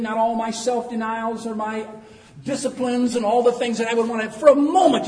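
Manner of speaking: loud, high-pitched pulpit delivery; full-force preaching. Real, not acted. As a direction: preach it out to the whole church. Preaches from a read text.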